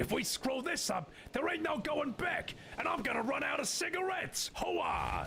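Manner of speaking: very high, put-on fairy voice. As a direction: call it out as a high-pitched fairy. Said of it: "how do you like the voice for the fairy?".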